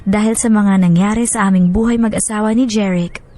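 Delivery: measured, heartfelt letter reading; story narration. Acted. Radio host reading a wife's letter to Miss M, heartfelt narration. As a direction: read her letter to Miss M like a sincere confession.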